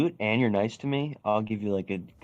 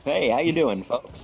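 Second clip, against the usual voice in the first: a light mock newscaster greeting, a bit higher and brighter; old school newscaster voice; 5 semitones higher, slower than usual. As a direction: play a hint of an old radio announcer greeting the folks. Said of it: "Newscaster accent?".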